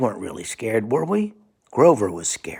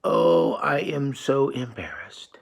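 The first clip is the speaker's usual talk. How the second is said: a touch higher, slow sheepish puppet voice; embarrassed Grover; 3 semitones higher, slower than usual. Acted. Lightly voiced Grover admitting embarrassment. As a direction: sigh it out sheepishly. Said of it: "Grover says".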